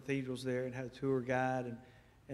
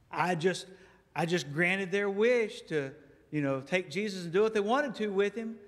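high, eager host welcoming a friend; pleased and puffed up, louder; gleeful governor expecting praise; excited Pilate; 5 semitones higher, 4 dB louder than usual. Acted. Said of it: "He's all excited".

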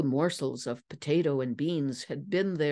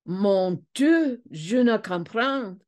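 raised, higher exclamation in French; shouted; 5 semitones higher, 4 dB louder, slower than usual. A narrator's reading. French count baffled by the found man, shouting. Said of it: "the Comte de Rian shouted".

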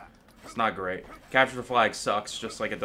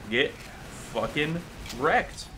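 slow gloat; 4 semitones higher, slower than usual. Real, not acted.

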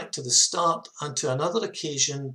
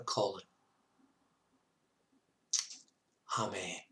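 leading the congregation in prayer. Acted. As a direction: pray for the listeners, gently. Leads a prayer.

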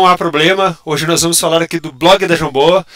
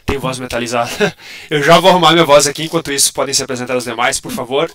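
robot voice; 2 semitones lower than usual. Real, not acted. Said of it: "O pessoal tá falando da minha voz de robozão".

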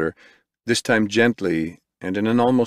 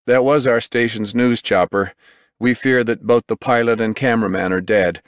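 urgent field reporter; 4 semitones higher, 3 dB louder than usual. Acted. Reporter live at scene.

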